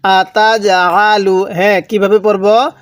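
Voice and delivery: slow drawn-out tajweed chanting; slow recitation. Shown as a demonstration. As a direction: recite slowly for students to echo. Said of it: "আমার সাথে পড়ুন".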